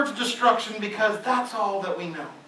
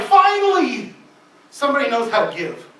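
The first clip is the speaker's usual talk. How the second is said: delighted exclamation; 2 semitones higher, 10 dB louder than usual. Retold or imitated. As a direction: burst out with relief and joy. Jesus delighted at widow.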